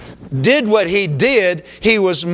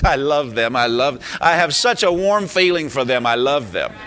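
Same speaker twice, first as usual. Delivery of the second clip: lower, syrupy mock-tender voice, lightly done; mock sentimental God; 4 semitones lower than usual. Pastor mocking a God who only feels, syrupy and low. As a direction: parody a gushy do-nothing love. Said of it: "just sits up in heaven with and says".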